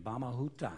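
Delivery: said in the Motu language; Motu word. Shown as a demonstration. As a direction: say "Bamahuta" with Motu sounds. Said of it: "That's thank you in the Motu language".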